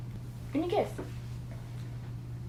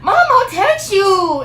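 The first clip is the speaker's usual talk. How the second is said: slow upset brush-off; 11 semitones higher, 9 dB louder, much slower than usual. Retold or imitated.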